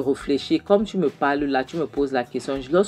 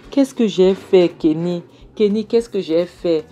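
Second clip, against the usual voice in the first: anguished plea; 4 semitones higher, 5 dB louder than usual. Acted. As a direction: beg Kenny in anguish over what she did. Mother despairing to Kenny.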